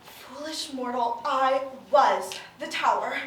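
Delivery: low, slow menacing villain; quiet, ominous dragon lord; dark lord. Acted. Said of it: "the demon dragon lord".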